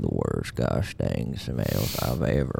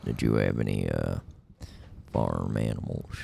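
cowboy voice. Acted. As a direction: play an old ranch hand, easy and dry. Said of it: "my cowboy voice is on point".

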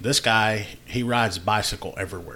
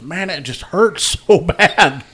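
laughing; 7 semitones higher, 6 dB louder, slower than usual. Retold or imitated. Cyclist voiced while teller laughs.

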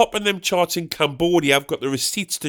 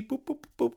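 imitated dialling boops; 8 semitones higher, 12 dB quieter than usual.

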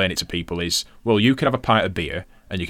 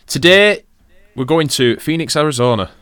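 mock announcer; 8 semitones higher, 8 dB louder than usual.

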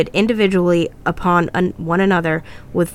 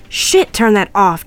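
slow, louder urgent command; shout; 3 semitones higher, 5 dB louder, slower than usual. Acted. James wants the whispering speaker turned off, shouting. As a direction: call it out with force, short of screaming. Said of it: "James shouted".

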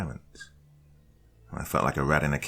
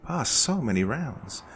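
lightly voiced, sugary calm host; a hint of a smug hostess calming a captive; Judy's voice; 6 semitones higher than usual. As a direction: soothe them falsely, in control. Narrator voices Judy.

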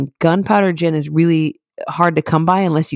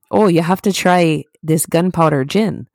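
light attempt at an Irish accent. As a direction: quote it in a tentative Irish accent. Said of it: "let me get my Irish accent in check".

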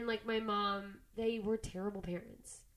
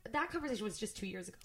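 holding back real tears while answering; tearing up; 4 dB quieter, faster than usual. Real, not acted. Telling her friend about her mother, tearful and quiet. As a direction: voice catching, real tears starting, a little quieter.

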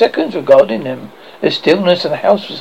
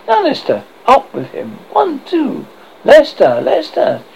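urgent calling; 8 semitones higher than usual. Acted. Urging a sleeper to wake.

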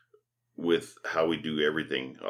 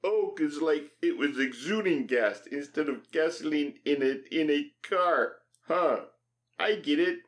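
high Irish leprechaun voice; high chirpy leprechaun; 8 semitones higher than usual. Pretend.

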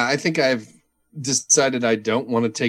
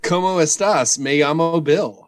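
beginner Spanish; 3 semitones higher than usual. Pretend. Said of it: "I'm learning Spanish".

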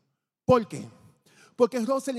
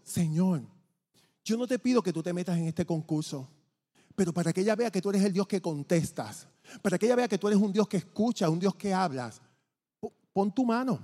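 retold prayer; 2 semitones lower than usual. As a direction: re-enact a personal prayer, pitched down at first. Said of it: "y yo estoy orando". (oración recreada en tono más grave)

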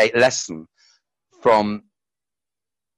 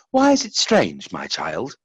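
story reading; slower than usual. Acted. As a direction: read it like a fable. Reads his story aloud.

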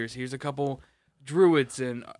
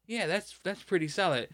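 higher-pitched imitated approval; approving onlooker; 5 semitones higher than usual. Onlooker inspecting a painted miniature, approving.

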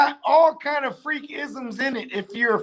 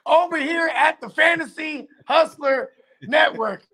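infomercial voice; 6 semitones higher than usual. Pretend. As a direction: sell it like a cheesy TV ad. Resumes the parody commercial pitch.

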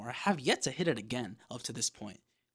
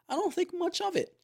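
breathy whispered aside, higher; 5 dB louder than usual. Real, not acted. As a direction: drop to a whisper. Aside while retelling gym visit.

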